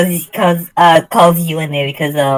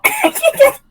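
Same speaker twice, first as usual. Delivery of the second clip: pitched-up voice changer voice. Real, not acted. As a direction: talk through a high voice changer. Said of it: "I can't turn the voice changer off".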